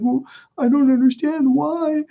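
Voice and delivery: very high, whiny retold plea; tearful plea. Crying son asking his mom why, high tearful whine. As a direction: wail it as an imitation of crying. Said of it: "I'm just fucking crying".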